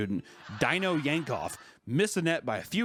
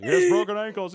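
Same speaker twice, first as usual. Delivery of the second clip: crying out; 6 semitones higher, 6 dB louder than usual. Retold or imitated. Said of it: "the guy's like".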